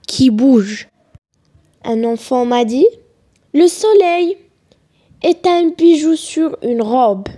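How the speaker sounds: measured poem reading with pauses between phrases; deliberate classroom recitation. Acted. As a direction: recite the poem line by line, letting each image settle.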